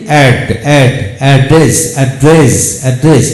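অ্যাড্রেস spoken with a single ড, repeated like a drill; demo pronunciation. Shown as a demonstration. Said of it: "এভাবে হবে". (অ্যাড্রেস শব্দটি ধীরে, এক ড দিয়ে)

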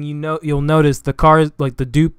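tripping over words; stumbling stutter. Real, not acted. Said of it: "I'm stuttering".

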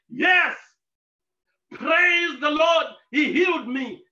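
loud, slow, exultant praise; joyful testimony. Retold or imitated. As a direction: testify it back at the mocker. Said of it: "He testified anyhow".

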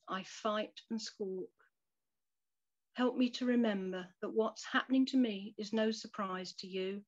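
a humble plea, unhurried; earnest prayer. Acted. Reads the closing prayer.

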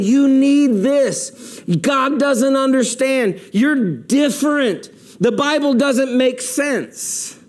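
a slow, sly tempter in the ear; Satan's whisper. Acted. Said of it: "he whispers in your ears".

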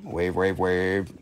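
deep voice wave. Pretend. Host waves to viewers in a comically deep voice. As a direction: drop the voice way down for a joke wave.

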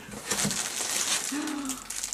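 long, high voiced gasp; drawn-out gasp of wonder; amazed gasp. Real, not acted. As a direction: gasp aloud in delight. Amazed at gift.

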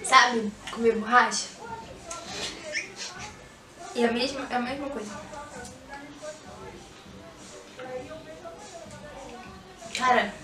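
chewing gummy candy; talking while eating; mouth full, chewing. Real, not acted. Seen 0: Grimaces and chews; puts red gummy in mouth at 2.1s.

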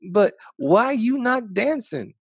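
put-on high, slow little kid voice; a small grandchild asking, wide-eyed; child voice. Grandchild asks Big Papa why he isn't dancing, high childlike voice.

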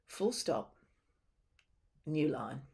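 spoken as a voice command to the computer; dictation command. Shown as a demonstration. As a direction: dictate the punctuation clearly. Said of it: "I'm also gonna say some things that seem a bit odd".

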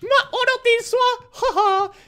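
hyvin korkea, venytetty riemuhuuto; innostunut kiljahdus. Real, not acted. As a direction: kiljaise korkealta ja naura päälle. Pelaaja huudahtaa innoissaan pelissä. (innostunut kiljahdus)

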